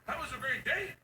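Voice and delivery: high, prim mock voice; mock goody-goody. Dad mocking wife's sober bedtime rules. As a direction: parody the proper dad.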